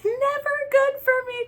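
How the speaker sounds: high, loud laughing realization. Real, not acted. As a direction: laugh it off in disbelief. Laughing at past relationship.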